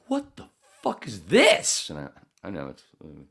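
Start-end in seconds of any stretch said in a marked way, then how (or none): 0.1-1.9 высоко, громко и медленно, наигранное недоумение; изобрази озадаченного слушателя; mock baffled listener. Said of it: "come back and go".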